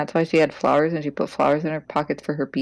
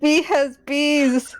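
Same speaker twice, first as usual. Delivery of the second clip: slow, deliberate; 9 semitones higher, 3 dB louder, much slower than usual. Acted. Waking sister with odd news.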